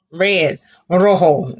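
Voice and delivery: rojo said ro-ho, slow; rojo with h sound. Shown as a demonstration. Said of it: "the J sounds like letter H".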